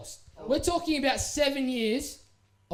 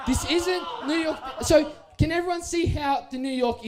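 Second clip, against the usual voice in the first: outraged call-out; 5 semitones higher than usual. Real, not acted. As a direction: show everyone it is wrong. Showing the crooked jersey to the crowd.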